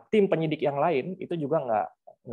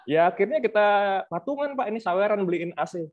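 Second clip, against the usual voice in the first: higher-pitched, amused mock complaint; lightly acted exasperation, starting high and settling; retold venting; 5 semitones higher than usual. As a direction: imitate a colleague owning up to a grievance. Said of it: "dicurhatin sama sebagian kawan-kawan kan".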